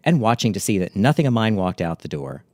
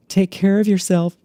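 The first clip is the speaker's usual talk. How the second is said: mopey farewell; 11 semitones higher, 4 dB louder than usual. Retold or imitated. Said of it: "really quivering lip and a heavy sigh".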